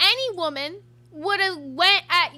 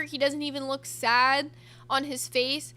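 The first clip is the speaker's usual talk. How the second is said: ordinary talk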